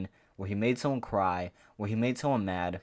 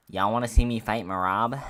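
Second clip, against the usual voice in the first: mocking O'Malley; 6 dB louder than usual. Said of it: "Do this".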